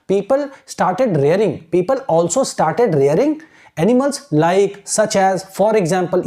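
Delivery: very slow, word by word recall; slow keyword recall. Shown as a demonstration. Teacher showing students how to recall the paragraph slowly. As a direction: draw each keyword out slowly. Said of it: "जब keywords को आप लेके आओगे ना".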